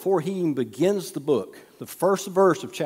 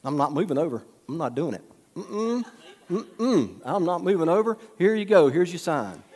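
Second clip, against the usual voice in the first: mock-defiant, teasing the tailgater; stubborn defiance; 3 semitones higher than usual. To the tailgater on his bumper, stubborn teasing refusal. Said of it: "And I'm just like".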